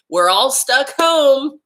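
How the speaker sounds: laughing high and slow. Real, not acted. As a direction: chuckle through the words. Laughing while scolding viewers.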